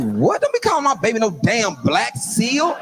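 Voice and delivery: mock outrage. Dad objecting to kids calling his daughter Black Seal, mock indignant. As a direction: play up a protective dad's outrage. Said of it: "I was like".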